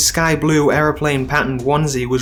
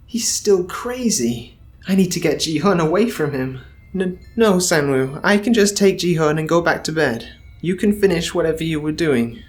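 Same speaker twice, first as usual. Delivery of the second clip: Bum, nervous; 3 semitones higher than usual. Acted. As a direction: keep Bum gentle but scared. Bum tries to soothe him.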